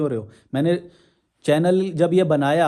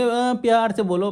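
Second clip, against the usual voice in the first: higher, slow whiny mimicry of critics; mocking imitation; 5 semitones higher than usual. Vlogger mimics viewers telling him to be gentle, mocking. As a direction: parrot the critics in a prissy sing-song. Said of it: "ऐसे बोलेंगे".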